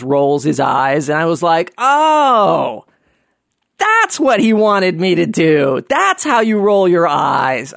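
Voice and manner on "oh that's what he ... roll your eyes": high drawn-out dawning oh, then slow; sudden realization. Real, not acted. Realizing Robin Williams' eye roll, slow awed surprise. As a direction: let it dawn on you slowly.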